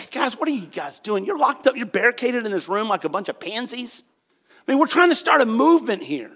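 acted mild telling-off; imitated scolding leader; lecturing. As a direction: lecture them in mock exasperation. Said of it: "he didn't come there to lecture".

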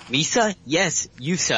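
goofy gungan lilt, half-hearted; Jar Jar voice. Retold or imitated. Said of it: "from a comedy point of view".

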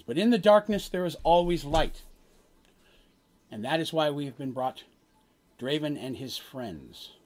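slow, portentous prophecy with long pauses; solemn prophet. Acted. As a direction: deliver a grave omen, phrase by phrase. Game master voices the prophet's prophecy.

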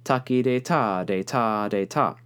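"taki de ta" with the long first syllable; ta-de rhythm. Shown as a demonstration. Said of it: "instead of".

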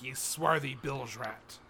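low, slow pirate insult; pirate speak. Pretend. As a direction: sneer it like a pirate captain. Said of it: "in pirate speak".

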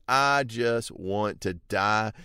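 slow, faint wish to die; weary despair. Retold or imitated. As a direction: sigh it out as if about to faint. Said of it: "He's about to faint".

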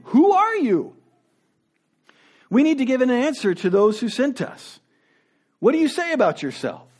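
a pitch-high, insistent "Who are you?"; mock interrogators pushing hard; demanding priests. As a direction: press him for an answer. Priests demanding John's identity.

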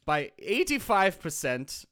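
put-on German-accented doctor giving orders; measured mock-German reassurance. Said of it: "if I had a German accent".

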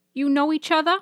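high, surprised grandmother. Acted. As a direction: ask it in Nana's high voice. Nana voiced by narrator.

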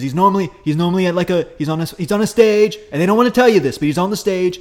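a hint of Trump bragging on stage; Trump impression. Host riffs a Trump rally, mild Trump voice. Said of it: "I can't do Trump".

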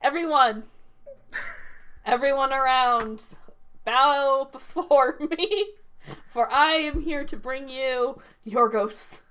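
grand, slow, hammed-up announcement; mock herald proclamation. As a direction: proclaim it like a herald calling the crowd.

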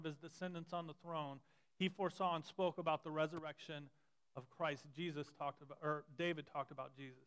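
measured reading of scripture aloud. Acted. Pastor reading Peter's sermon aloud to the congregation, steady and measured. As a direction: read the passage steadily to the church.

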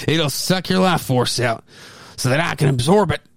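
lightly voiced old hermit; a hint of a creaky old hermit sneering. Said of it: "gave him the old hermit's voice".

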